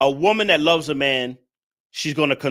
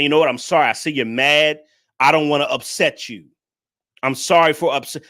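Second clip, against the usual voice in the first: apologetic. Shown as a demonstration. Showing women the calming tone, gently apologetic. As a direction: ease him down with an apology. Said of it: "by talking in a tone where you're being apologetic".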